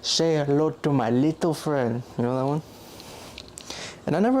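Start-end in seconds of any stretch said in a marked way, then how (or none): 0.0-2.0 slow, deliberate movie quote; a light take on Tony Montana; Tony Montana line. Retold or imitated. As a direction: drawl out the famous line slowly. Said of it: "he's the one that goes".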